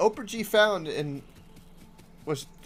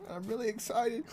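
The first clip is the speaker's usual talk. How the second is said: nerd voice breaking into laughter; 7 semitones higher, 8 dB quieter than usual. Pretend. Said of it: "give us your nerd voice".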